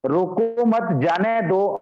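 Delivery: "रोको मत" as one group, then "जाने दो"; pause after मत. Shown as a demonstration. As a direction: join "मत" to "रोको", letting "जाने दो" stand apart. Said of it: "उसको जाने दीजिए". ("रोको मत" एक साथ, फिर "जाने दो")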